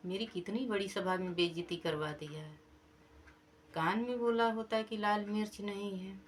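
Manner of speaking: king scolding his servant after being shamed in court; annoyed scolding. Acted. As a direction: scold the servant for shaming you. King scolding servant for embarrassing him.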